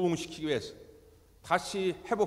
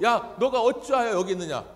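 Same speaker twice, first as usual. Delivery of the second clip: louder, higher calling out; God calling Elijah out, louder; God's sharp question; 4 semitones higher, 7 dB louder than usual. Acted. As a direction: stress 너가 like a rebuke.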